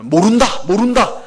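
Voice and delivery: mildly insistent, repeated "모른다"; emphatic denial. Retold or imitated. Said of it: "이 말을 두 번이나 강조한 거예요".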